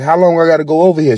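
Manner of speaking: put-on a sulky teenager pushing back; whiny teen. Teen complains about chores.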